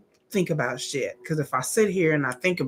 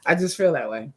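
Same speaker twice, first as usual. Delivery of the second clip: sad whisper. Real, not acted. Sad confession, near tears.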